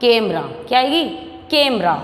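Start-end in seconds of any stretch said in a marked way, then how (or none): 0.0-0.4 कैमरा with a firm, stressed first vowel; forceful vowel. Shown as a demonstration. Teacher answering own question, कैमरा with force on ai. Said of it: "जोर लगा के बोलनी पड़ती है". 1.5-1.9 कैमरा with a firm, stressed first vowel; forceful vowel. Shown as a demonstration. Teacher repeating the answer, कैमरा with force on ai. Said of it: "जोर लगा के बोलनी पड़ती है".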